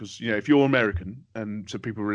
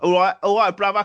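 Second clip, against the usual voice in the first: put-on London Cockney accent; 10 semitones higher, 8 dB louder than usual. Showing an english voice that sells in america: put-on cockney accent. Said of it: "I'll put on like the English type of voice which sells in America ... Cockney guy".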